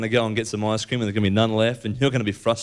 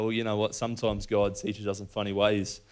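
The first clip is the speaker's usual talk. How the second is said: softer, resigned shrug of a line; laughing it off; 2 semitones lower, 6 dB quieter than usual. Retold or imitated. Shrugging off his own missed turns, softer. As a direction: let it go gently, softer. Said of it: "sort of laugh it off and go".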